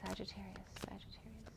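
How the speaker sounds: soft calling. Real, not acted. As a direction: call the name softly, almost breathing it. Calling softly to the cards.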